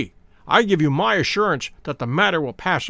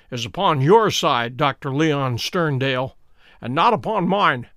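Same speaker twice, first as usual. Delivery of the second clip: stern; 2 semitones lower than usual. Acted. Holmes turning the bluff back on Sterndale, mildly stern. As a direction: turn the accusation back coolly. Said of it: "said Holmes sternly".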